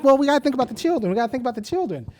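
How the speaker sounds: quick, preachy mock-earnest voice; mocking everyone. Mocking officials who always cite the children. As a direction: rattle it off like a hollow slogan. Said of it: "and everyone's like".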